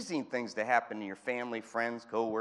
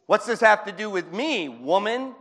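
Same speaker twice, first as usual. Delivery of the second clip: indignant Jesus; 8 semitones higher, 11 dB louder than usual. Pretend. Jesus rebukes Mary again.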